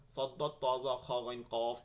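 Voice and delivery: brisk rote list in one breath group; all together, quickly. Shown as a demonstration. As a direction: run the letters together. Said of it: "একসাথে".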